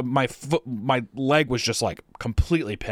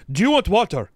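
higher, louder mock helper voice; mimicked helper; 8 semitones higher, 6 dB louder than usual. Mocking the helper offering him water. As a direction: ape the eager helper.

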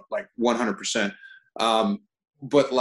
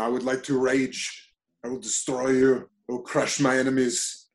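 lightly voiced barbarian warrior; a hint of a growling conqueror, declaring it; Arnold as Conan. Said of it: "So I could make Arnold a Conan the Barbarian".

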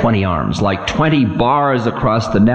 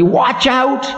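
stern Time; 12 semitones higher, slower than usual. Acted. Time voice continues.

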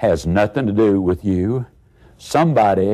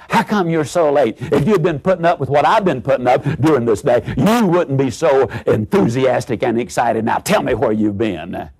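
mildly heated spousal scolding; mock screaming mate; 2 semitones higher than usual. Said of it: "your mate screams back at you".

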